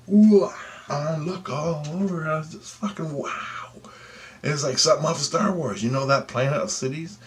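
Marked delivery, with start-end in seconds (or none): 0.1-3.7 whispered, stunned; awed whisper. Retold or imitated. Retelling the alien sighting, a stunned whisper. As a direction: breathe it out in disbelief.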